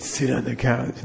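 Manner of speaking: slow order, lightly voiced damaged-voice lama; Darth Vader. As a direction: lightly imitate a stern teacher with a crushed voice box. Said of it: "he talked like Darth Vader".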